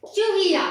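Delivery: चूहिया with a brief u; short vowel, light stress. Shown as a demonstration. Teacher repeating a short-u example for children, u kept brief. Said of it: "मैंने कम जोर लगाया".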